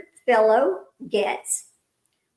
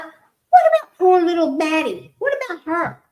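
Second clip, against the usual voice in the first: louder, higher, indignant protest; indignant outcry; 6 semitones higher, 6 dB louder than usual. Retold or imitated. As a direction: cry out for the little girl. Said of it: "I'm like".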